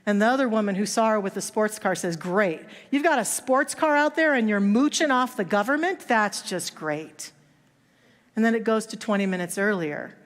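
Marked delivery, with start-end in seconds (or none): 2.2-7.3 sneering, higher on the accusation; sarcastic scorn. Retold or imitated. Onlooker scorning the young woman at checkout, sarcastic and sneering. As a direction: scoff at her with disgust.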